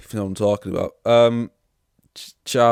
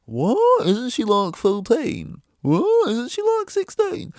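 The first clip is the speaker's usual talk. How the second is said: much higher, louder incredulous voice; high-pitched mock outrage; mocking tweeters; 14 semitones higher, 6 dB louder, slower than usual. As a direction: squeal it out like shocked tweeters. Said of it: "They say".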